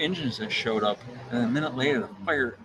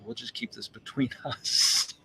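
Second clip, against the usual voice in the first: slow, hushed imitation of an official; retold off-the-record murmur breaking into a laugh; confidential aside; slower than usual. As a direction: let them in on a secret, slowly. Fire chief quietly lets it go.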